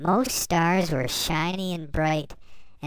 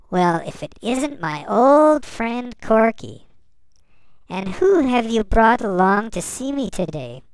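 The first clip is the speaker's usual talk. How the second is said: warm and friendly; 3 semitones higher, 6 dB louder than usual. A narrator's reading. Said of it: "with a warm and friendly voice".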